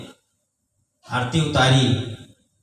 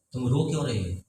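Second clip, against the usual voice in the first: soft concerned question; 4 semitones lower, 7 dB quieter, faster than usual. Retold or imitated. Son asks crying mother.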